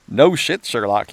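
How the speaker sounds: a light sarcastic sneer. Retold or imitated. Narrator voicing the cynical reader, a mild mock sneer. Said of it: "you sneer".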